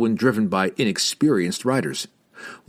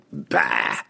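snorted bah; 6 semitones lower than usual. A narrator's reading. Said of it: "he snorted at the notion".

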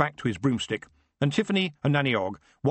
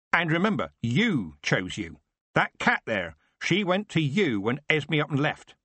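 Nanny's parting shot; 5 semitones higher than usual. Acted.

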